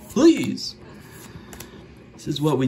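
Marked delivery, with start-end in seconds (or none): 0.1-0.7 high, squealed please; a high pleading shout of Please; desperate plea. Acted. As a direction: beg them like your life depends on it. Begging viewers to subscribe.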